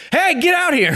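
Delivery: scary shout. Acted. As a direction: bark it out to scare them. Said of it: "use your scary voice".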